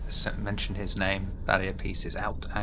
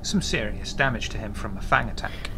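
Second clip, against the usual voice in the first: game master narration; 4 dB louder than usual. Acted.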